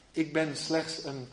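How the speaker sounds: zacht en laag, bescheiden; nederig zacht. Acted. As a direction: maak jezelf klein met de stem. Johannes spreekt nederig over zichzelf. (zacht en nederig)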